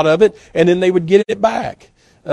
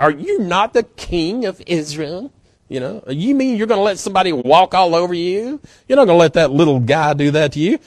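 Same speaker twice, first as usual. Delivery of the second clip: scolding wife; 3 semitones higher than usual. Retold or imitated. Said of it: "Can you just hear her?".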